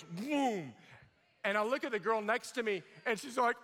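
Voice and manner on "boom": drawn-out whoom sound effect; long, falling imitated boom; imitated stomach noise. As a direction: mimic the stomach booming. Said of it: "And then it goes".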